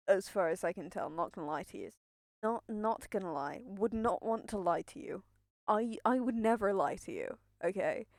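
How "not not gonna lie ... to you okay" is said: breathless nervous talk; short of breath from nerves. Real, not acted. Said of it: "I'm genuinely out of breath".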